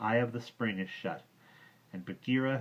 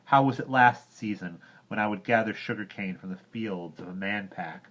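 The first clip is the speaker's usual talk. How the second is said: angry complaint; 8 dB louder than usual. Acted. Mowgli rebukes Bagheera, loud angry boy voice. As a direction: scold him with rising anger.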